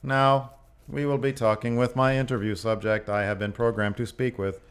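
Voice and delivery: lightly robotic interview bot; stilted bot announcer, only mildly robotic; robotic interviewer. Acted. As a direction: recite it like a programmed presenter. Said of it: "you're putting on way more motion".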